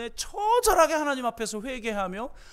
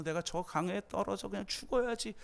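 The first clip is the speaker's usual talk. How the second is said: much softer, hopeless voice; despairing mutter; 9 dB quieter than usual. Retold or imitated. Young man alone by the river, softly despairing. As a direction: say it to yourself like giving up.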